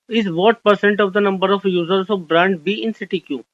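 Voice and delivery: very slow, word-by-word reading of the question. Shown as a demonstration. Teacher reading an exam question to the class, slow and deliberate. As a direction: read it out slowly so students can follow.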